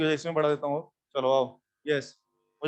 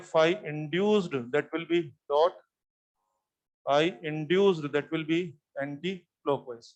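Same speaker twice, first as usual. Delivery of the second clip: very slow, word by word, as if writing on the board; slow dictation; 3 semitones lower, much slower than usual. Shown as a demonstration. Teacher dictating slowly to his class. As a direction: spell it out slowly so students can copy. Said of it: "मैं लिख के देता हूँ".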